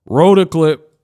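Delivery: whispered cue. Real, not acted. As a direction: say it under breath. Whispered cue to roll clip.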